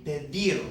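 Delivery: "pedir" with natural stress on -dir; stress on the last syllable. Shown as a demonstration. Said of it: "natural stress comes on the last syllable".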